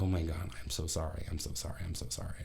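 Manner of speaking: apologising meekly, voice dropping away; retold sorry, trailing to almost nothing; sheepish apology. Retold apology to injured old lady.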